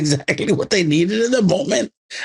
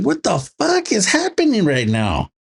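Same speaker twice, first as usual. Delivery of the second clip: higher-pitched mock disbelief; mock bafflement; 5 semitones higher than usual. Viewer recalling a serious movie scene, mock bafflement. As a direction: act out being baffled by the film. Retold baffled reaction to film.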